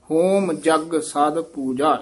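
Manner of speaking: slow ਹੋਮ ਜਗ ਸਦ ਪੂਜਾ; deliberate, ending on ਪੂਜਾ; slow and full stop. Shown as a demonstration. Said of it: "ਇੱਥੇ ਵਿਸਰਾਮ". (ਹੌਲੀ ਤੇ ਵਿਸਰਾਮ)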